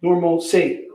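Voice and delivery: Normalcy said nor-mul-see, falling; repeating the coworker's normalcy, falling. Shown as a demonstration. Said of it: "pronunciation debate".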